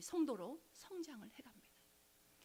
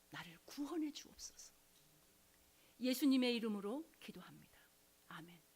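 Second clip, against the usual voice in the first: recited prayer; 4 dB louder than usual. Retold or imitated. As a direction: lead the prayer line by line and let it fade to a whisper. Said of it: "내 말을 따라해". (또박또박 따라 읽는 기도, 끝은 속삭임으로)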